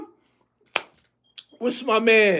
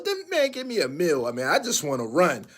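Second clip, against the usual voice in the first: soft, lower, offhand player voice; lightly voiced humble player; 7 semitones lower, 7 dB quieter than usual. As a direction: shrug it off like an old pro. Voicing humble retired player.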